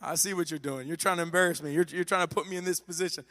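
put-on I see through you, kid; mildly exasperated parent; annoyed parent.

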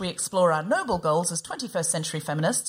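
measured, scripted show introduction; polished presenter delivery; podcast intro read. Shown as a demonstration. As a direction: read out the podcast's mission statement. Reads the show's set introduction.

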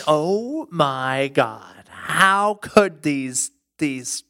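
drawn-out, slow mock horror; mock naive disbelief. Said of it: "and thinking".

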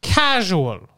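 town crier. Pretend. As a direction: read out the invitation grandly. Continues mock invitation.

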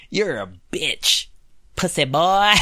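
mock taunt with a laugh breaking through; laughing trash talk. Gamer trash-talking a rival, laughing. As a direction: taunt then crack up.

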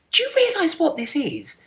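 a hint of the headmaster's gravity; headmaster's question. Headmaster asking the boy about his certificate, mock serious. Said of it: "my headmaster sat me down and said".

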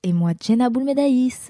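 small little voice; petite voice. Real, not acted. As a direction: introduce yourself in a tiny voice. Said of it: "petite voix comme ça". (petite voix)

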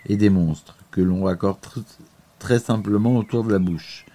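reading a prepared text aloud; steady read-aloud narrator voice; documentary narration. Acted.

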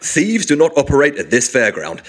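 mock public warning announcement; lightly hammed-up fairground notice; fairground announcer. Mocking his friend's attempt as a fairground announcer. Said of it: "That sounds more like".

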